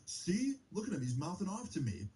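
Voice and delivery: high, whiny tattletale voice; mock tattling boyfriend. Mimicking the boyfriend telling on him to mom, whiny and high. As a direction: whine it like a kid telling on someone.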